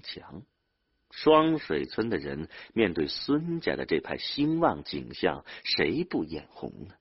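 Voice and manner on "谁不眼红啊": plain reading voice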